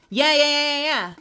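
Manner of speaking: high, loud eager yeahs; excited yeahs. Real, not acted. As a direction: rush in agreeing eagerly. Eager agreement.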